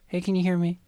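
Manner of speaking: lightly voiced orc calling out; half-hearted orc call. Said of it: "This is my orc voice".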